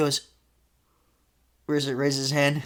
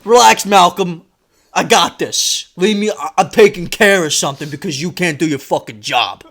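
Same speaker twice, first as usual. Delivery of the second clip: dismissive dad; 6 dB louder than usual. Retold or imitated. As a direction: shut her down, loudly. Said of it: "That's what he says".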